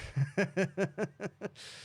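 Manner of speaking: a short, high laugh at a joke; real laugh. Real, not acted. Streamer laughing at a viewer's joke, real laugh.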